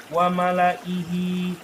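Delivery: slow "Wa malaihi", hi sounded after the long i; correct reading. Shown as a demonstration. Teacher models the right form, full "Wa malaihi". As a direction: recite "Wa malaihi" through to a clear hi.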